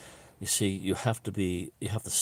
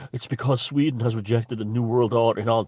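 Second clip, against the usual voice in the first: ranting conspiracy theorist; 4 semitones higher, 7 dB louder than usual. Retold or imitated. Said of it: "don't be sitting there going".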